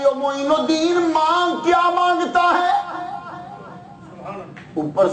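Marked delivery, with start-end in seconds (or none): 0.0-3.0 divine voice. Acted. Voice from above calls out.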